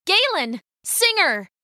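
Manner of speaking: high-pitched wake-up call; urgent call. Acted. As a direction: call out sharply to rouse a sleeper. Soldier waking sleeping companion urgently.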